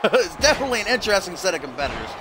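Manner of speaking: lively wrestling commentator; play-by-play. Pretend. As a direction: call the match as it unfolds.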